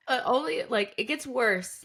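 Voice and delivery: high, squealing through real laughter; words breaking up into giggles; laughing hard. Real, not acted. Co-host laughing helplessly at her friend's joke, cracking up.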